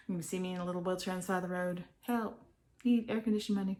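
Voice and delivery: playfully begging for help; mock roadside plea. Joke plea begging for money.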